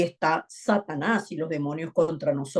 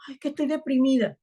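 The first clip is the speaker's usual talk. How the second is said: mock whiny; 7 semitones higher, much faster than usual. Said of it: "estás triste por algo".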